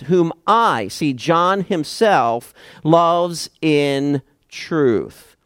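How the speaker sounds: slow, "I" set apart in "whom I ... loves in truth"; slow emphatic reading; stress on I. Shown as a demonstration. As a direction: linger on "I" and stretch out "loves in truth". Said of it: "the I is used".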